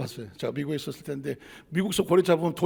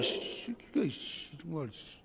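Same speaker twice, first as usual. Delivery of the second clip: muttered curses; 4 semitones lower, 14 dB quieter, slower than usual. Retold or imitated. Angry father muttering curses.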